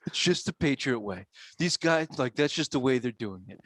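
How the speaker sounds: mock dopey fanboy voice. Mocking his cohost's fanboy line. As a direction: parrot the fanboy line with scorn. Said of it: "What a stupid fanboy fucking thing to say".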